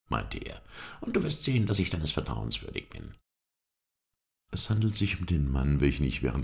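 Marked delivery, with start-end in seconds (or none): 1.0-3.2 eager promise. A narrator's reading. Halef won over, promises eagerly.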